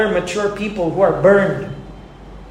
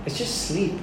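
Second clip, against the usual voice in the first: dying friend's quiet comfort; 8 dB quieter than usual. Retold or imitated. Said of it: "He said".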